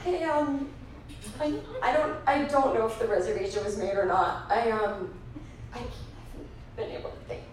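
quiet, halting, drained customer; miserable, dazed. Retold or imitated. Grieving customer at the rental counter, dazed and halting. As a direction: imitate someone too upset to finish a sentence. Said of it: "they look perhaps like they wanna die".

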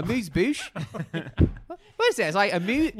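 high, laughing Pittsburgh guy puzzling over "amuse bouche"; a Pittsburgh guy baffled by fancy food, Pittsburgh accent. Shown as a demonstration. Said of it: "say them in a Pittsburgh accent".

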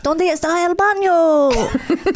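slow, high, lightly scratchy cartoon boy; scratchy little boy voice. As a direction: squeeze out a small scratchy kid voice. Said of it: "says it in this, like, scratchy voice way".

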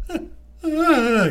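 drawn-out monster moan; Frankenstein's happy groan.

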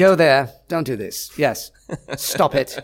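barked, uptight orders; bossy Imperial snapping commands; officious officer. Retold or imitated. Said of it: "officious, uptight".

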